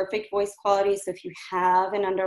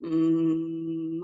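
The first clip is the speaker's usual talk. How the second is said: relaxed, effortless hum; easy hum; 4 semitones lower than usual. Shown as a demonstration. Coach demonstrating an easy hum to clients, relaxed. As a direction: hum gently with no throat strain. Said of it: "if I'm doing hum and it's something like this".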